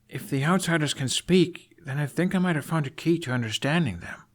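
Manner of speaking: lightly voiced eager young man; earnest Hiccup.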